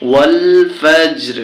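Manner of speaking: ফজর ends on a bare r, no "ri"; stopping pronunciation. Shown as a demonstration. Teacher shows how to stop at the verse end, ফজর with vowelless r. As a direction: stretch ওয়াল, then close ফজর on the r without a vowel. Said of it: "এরকম বললে হয়ে যাবে".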